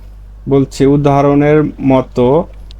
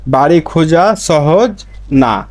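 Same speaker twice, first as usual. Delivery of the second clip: slow clear translation; slower than usual. Shown as a demonstration. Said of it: "নুন খসি খুঁজাটা".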